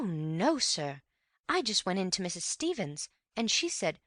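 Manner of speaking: put-on a nervous girl eager to tell the court; young housemaid. A narrator's reading. Elsie the maid testifies.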